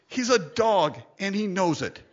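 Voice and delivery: said through a real laugh. Real, not acted. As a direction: laugh while you say it. Laughing at his own joke.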